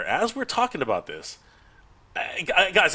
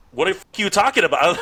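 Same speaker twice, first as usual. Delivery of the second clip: louder, higher mock disbelief; mock incredulous outburst; 5 semitones higher, 5 dB louder than usual. Hatter replying to a strange pitch, loudly incredulous. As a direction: burst out as if totally baffled.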